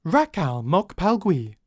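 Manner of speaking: slow, level machine voice; synthesized voice. Acted. Alien computer announcing in an unknown language. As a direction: space every syllable out evenly. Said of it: "a synthesized voice announces".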